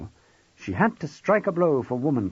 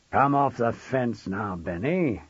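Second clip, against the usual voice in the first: growl with a smile; slower than usual. Acted. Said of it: "Maxwell growled with a smile in his voice".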